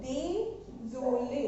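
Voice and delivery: désolé said slowly, the accented é sounds lifted upward; teacher drawing out désolé with rising é. Shown as a demonstration. Teacher showing students the rising accented é sound. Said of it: "थोड़ा सा upward direction में बोलेंगे".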